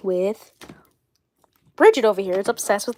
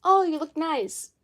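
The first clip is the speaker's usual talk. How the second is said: higher, slow drawn-out compliment; quoting boyfriend's compliment; 6 semitones higher, 4 dB quieter than usual. Retold or imitated. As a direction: lightly imitate an admiring partner. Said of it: "he's like".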